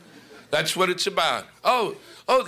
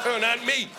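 whining Christian; 5 semitones higher than usual. Retold or imitated. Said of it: "that little whining Christian shit going".

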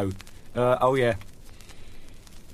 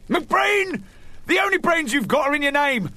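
stern headmaster; 12 semitones higher than usual. Retold or imitated. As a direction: bark it like a teasing old schoolmaster. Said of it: "my headmaster ... used to say".

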